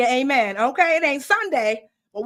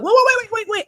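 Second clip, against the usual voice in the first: excited interrupting; 11 semitones higher, 6 dB louder, faster than usual. Acted. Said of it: "Anyone who knows me knows".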